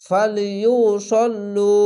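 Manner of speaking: ফালিউসল্লু slow with a thick full স; heavy sad. Shown as a demonstration. Teacher showing the heavy letter, slow careful recitation. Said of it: "এখানে সাল্লু হবে না".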